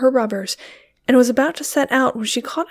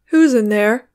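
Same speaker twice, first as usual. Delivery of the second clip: cried; 5 dB louder than usual. A narrator's reading. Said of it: "cried David Gleason".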